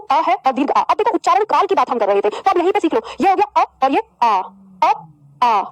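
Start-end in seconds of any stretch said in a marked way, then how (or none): 4.8-4.9 अ said quick and short; अ, one short beat; short vowel. Shown as a demonstration. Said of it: "इसका उच्चारण जल्दी". 5.4-5.6 आ held twice as long as अ; आ, drawn out; long vowel. Shown as a demonstration. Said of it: "इसका इससे दुगना".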